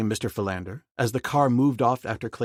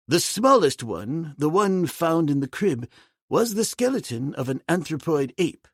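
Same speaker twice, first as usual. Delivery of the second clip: put-on high, slow, amazed old gentleman; excitable old Mister Philander; 5 semitones higher than usual. Philander marvels at Tarzan driving him, astonished old gentleman. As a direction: marvel at it all like a fussy old scholar.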